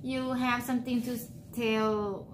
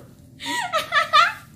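real laugh; 5 dB louder than usual. Real, not acted. Laughs at husband's correction.

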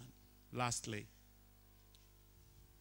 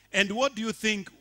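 eager teacher question; 5 semitones higher, 8 dB louder than usual. Retold or imitated. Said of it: "she asked".

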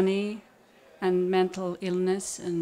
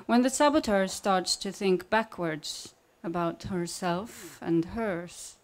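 measured reading with long pauses between lines; poetry reading. Acted. Poet reading her saboteur manual to an audience, measured poetry reading. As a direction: read each line evenly, then let it hang.

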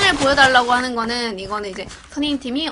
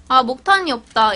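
pointed hint; 6 dB louder than usual. Pretend. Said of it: "라고 말하면 이제 우리 팀이 뭔가 주겠지?".

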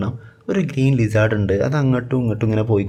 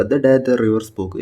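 slow title reading; much slower than usual. Shown as a demonstration. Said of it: "ഇതിൻ്റെ title ഒന്ന് നോക്കുക".

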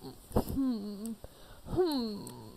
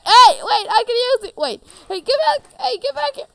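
calling after it; 11 semitones higher, 9 dB louder than usual. Acted. Chasing the fleeing pumpkin.

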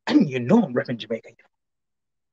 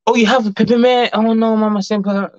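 surprised; 8 semitones higher, 4 dB louder than usual. Real, not acted. Surprised at comment.

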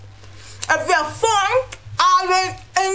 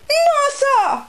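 mock disbelief; 12 semitones higher than usual. Mock island exclamation.

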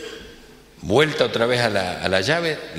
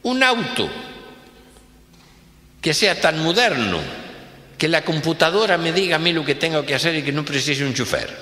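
higher-pitched rich man giving orders; demanding boss; 8 semitones higher than usual. Acted. Rich boss ordering his manager, raised pitch. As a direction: boss laying down demands, slowing at the end. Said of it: "Le dice".

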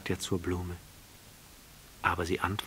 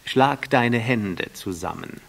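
louder, slow eager command; vain man's request; 4 semitones higher, 7 dB louder, slower than usual. A narrator's reading. The vain man asking the prince to clap, eager and slow. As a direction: demand applause. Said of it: "empfahl ihm der Eitle".

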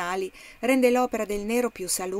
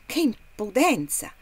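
slow, louder burst of outrage; outraged exclamation; 2 semitones higher, 5 dB louder than usual. Acted. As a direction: spit it out, appalled at his nerve. Outraged after the trader leaves. (indignazione lenta e forte)

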